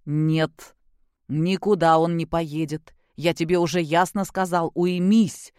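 a hint of a stern father refusing; flatly refuse, firm and strict. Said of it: "строго проговорил Григорий Иванович".

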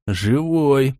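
a winded rasp of the word Живой. Acted. The hero, flattened by the cat, rasps Живой. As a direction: croak out Живой after the fall. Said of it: "просипел я".

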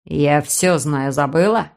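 low, slow sly voice; a smug brother, low and taunting; snide man. Acted. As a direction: lean into the sneer, low and unhurried. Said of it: "ехидно заметил он".

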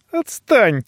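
a mild sob, pushing him away; sobbing. A narrator's reading. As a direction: snap it through a sob. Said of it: "всхлипнул я".

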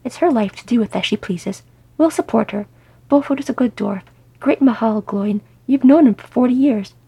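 insist, building to exasperation; exasperated scolding. Acted. Wife defending Beaufort to Glóin, exasperated.

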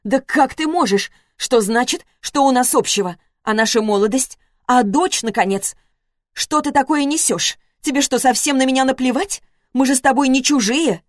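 ex-wife indignantly accusing Lagutin; indignant outrage. A narrator's reading. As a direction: fling the accusations back at him. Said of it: "удивление и возмущение в её голосе".

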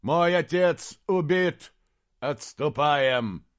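high, loud, slow cry of grief and alarm; desperate shout. Acted. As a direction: call out over the battle in despair. Desperate battlefield cries of a knight. (отчаянный крик)

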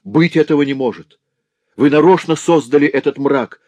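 loud high denial; shouting. Acted. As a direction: cry out in disbelief. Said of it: "вскричал разбойник".

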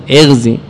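اغزي starting with "i", "ighzi"; kasra on hamza. Shown as a demonstration. Teacher returns to the first allowed reading, اغزي as "ighzi". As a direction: say اغزي as "IGH-zee". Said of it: "يجوز فيه وجهان".

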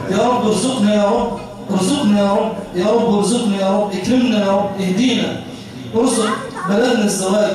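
measured, repeated pleas to God; supplication prayer. Real, not acted. Preacher leading worshippers in Ramadan supplication, prayerful. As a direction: lead a congregation in heartfelt dua.

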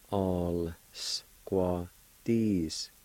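"All squaw Disc" stretched, syllables held apart; slow sounded-out pronunciation. Shown as a demonstration. Teacher repeating the L with A word for learners, slowly sounded out. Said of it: "pronounce the L sound with the A like this".

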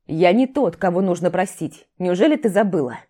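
growling. Acted. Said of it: "прорычал ей в лицо".

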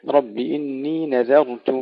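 نذرت with light ذال and نون, heavy راء; Quranic recitation. Shown as a demonstration. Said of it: "ترقيق الذال والنون لتفخيم الراء". (ترتيل نذرت بترقيق الذال وتفخيم الراء)

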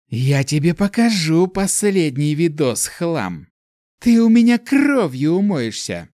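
put-on high, loud enraged girl yelling at the screen; furious threats. Elemental rages at a troll while typing, furious yelling.

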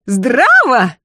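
shrieking. Acted. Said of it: "завизжала Лазарева".

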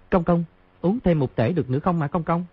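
high, anxious pleading; frightened plea. A narrator's reading. Young eunuch pleading with trembling master, high anxious plea. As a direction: beg the old master in alarm. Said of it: "Thái giám trẻ hoảng sợ nói".

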